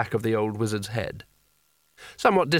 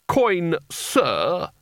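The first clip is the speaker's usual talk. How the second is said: higher, indignant snap; snapped correction; 4 semitones higher than usual. A narrator's reading. Spelter corrects the boy's manners, snapping sharply. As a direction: snap the correction with a sudden lift. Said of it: "snapped Spelter".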